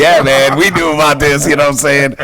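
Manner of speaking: lightly mimicked giddy excitement; imitated giddiness. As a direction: act out a friend bubbling over with news. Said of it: "he was super giddy about it".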